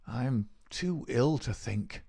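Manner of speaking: slow, weak pleading of a sick man; feigning deathly illness. Acted. Sick Holmes too ill to think.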